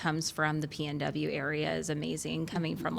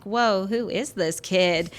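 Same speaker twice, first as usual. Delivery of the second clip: louder, drawn-out retold amazement; astonished reaction; 5 dB louder, slower than usual. Teacher recalling a nonchalant student turned keen, astonished. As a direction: stretch out the impressed disbelief. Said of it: "And I'm like".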